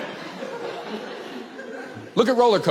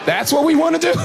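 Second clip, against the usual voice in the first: higher-pitched, rising disbelieving questions; incredulous; 4 semitones higher than usual. Acted. Comedian balks at a zoo without walls, incredulous.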